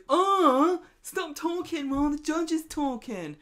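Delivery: loud, high indignant outburst; shouting in court. Retold or imitated. Host acting Todd yelling in court, loud indignant shout. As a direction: blurt it out loud across the courtroom. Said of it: "Todd just stands up and goes".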